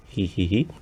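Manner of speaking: soft, low tittering hee-hee; mischievous giggle. Pretend. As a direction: giggle quietly at a naughty idea. Giggles at own wicked suggestion.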